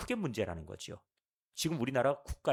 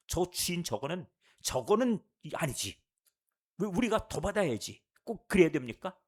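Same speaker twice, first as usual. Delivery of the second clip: lightly acted, higher-pitched indignant complaint; mock indignant grumbling; 4 semitones higher, 3 dB louder than usual. Workers grumbling that the master should pay them more, mildly indignant. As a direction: protest like a worker feeling short-changed, mildly. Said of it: "막 화가 나고 속상하고".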